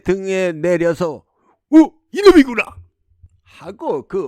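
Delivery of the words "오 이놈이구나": loud, high cry of discovery; triumphant exclamation. Acted. Prince spots the duck with the heart, excited shout. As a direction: pounce on the find.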